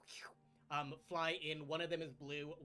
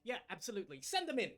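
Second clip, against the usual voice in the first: breezy queen; 4 semitones higher, 3 dB louder, faster than usual. Acted. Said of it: "And she goes".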